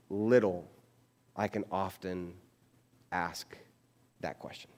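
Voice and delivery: fading to a whisper; hushed confession. Real, not acted. Pastor confides in friends, fading into a whisper. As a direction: let it drop to a confiding hush. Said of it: "we're friends here".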